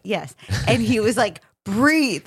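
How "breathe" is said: mildly raised, imitating a yelled order; mock-yell it as a command; retold yell. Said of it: "Like, yelling".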